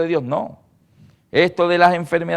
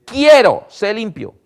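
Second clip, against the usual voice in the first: loud, higher decisive word; firm command; 4 semitones higher, 6 dB louder, slower than usual. Retold or imitated. Jesus healing the leper, loud firm command. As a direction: declare it with authority.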